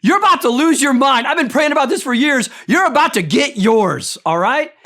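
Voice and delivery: smug, gleeful taunt at the king; mock-gleeful gloating at the king. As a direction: rub it in like a smug friend. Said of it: "here's how I would deliver this message".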